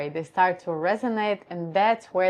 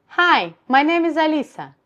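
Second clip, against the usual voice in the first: pushed up high and tight, much higher and louder; high larynx voice; 9 semitones higher, 7 dB louder than usual. Shown as a demonstration. Voice coach demoing a raised larynx, high and tight. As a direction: pull the larynx up and say your name high and pressed. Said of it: "Higher position of larynx".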